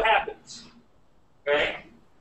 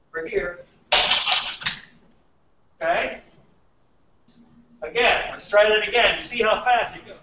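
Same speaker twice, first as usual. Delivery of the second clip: muffled behind a helmet; talking through a helmet visor. Real, not acted. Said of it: "let me put the helmet on here".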